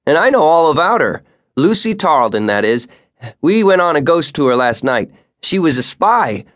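put-on a boastful kid eager to impress the guide; cocky teen boy. A narrator's reading. Brash teenage boy brags to the guide about last night's ghost tour.

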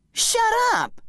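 high, sharp angry shout. Acted. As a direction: yell it back at him. Zach snaps at his bum.

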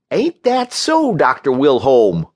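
gloating, stretched-out high opening; needling. A narrator's reading. Wims needles the injured Wilholm.

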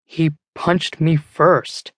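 slow, limp, defeated excuse; lame excuse. Acted. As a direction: mumble it out sheepishly, slowly. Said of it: "Duncan says lamely".

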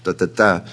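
"ta, ta, ta" as short, short, LONG; anapest beat. Shown as a demonstration. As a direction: land on the final "ta".

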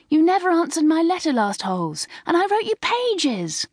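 high, chattering schoolgirl voices; bubbling high-pitched welcome; excited greetings. A narrator's reading. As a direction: greet a friend eagerly after the holidays. Crowd of friends greeting Darryl.

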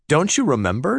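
Wendy lightly voiced, astonished he forgot; mildly incredulous question; amazed. A narrator's reading. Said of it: "she asked, amazed".

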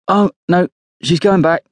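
high-pitched, wry commentary; dry humour. A narrator's reading. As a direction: remark with amused mock dismay. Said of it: "Nick snorts with dry humour".

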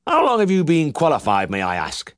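high probing twang, dropping off; pry with mock politeness; nosy old farmer. A narrator's reading. Uncle quizzing the young vet, nosy high twang.

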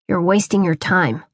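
low, mild mock growl. Father warns his son, low mild growl. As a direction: grumble it down at the boy. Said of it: "Pa growled".

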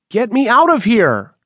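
high, loud cry to be let out; panicked scream. Acted. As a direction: shout it in terror, trapped. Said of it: "he screamed".

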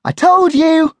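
high, loud gloating puppy; triumphant bark. Acted. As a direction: crow that the plan worked. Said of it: "Einstein barked".

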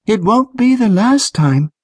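high, sure of herself; confident girl voice. A narrator's reading. Trish answering grateful Patrick, high confident voice. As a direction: answer him with easy confidence.

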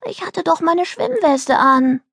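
put-on slow, high-pitched child's explanation; exaggerated patience. Daughter reassuring her angry mother, patronisingly patient. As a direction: spell it out as if to a small child. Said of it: "erklärte Delly so geduldig".

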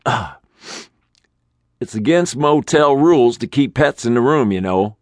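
high, fussy rule-quoting manager; nervously cite the motel rules. Acted. Manager timidly warning Mitch about pets, high.

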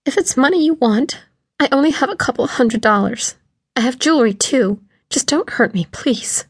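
terrified plea ending in a whispered please; whimpering. A narrator's reading. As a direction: beg him not to hurt you, frightened. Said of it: "My voice cracked and I started to whimper".

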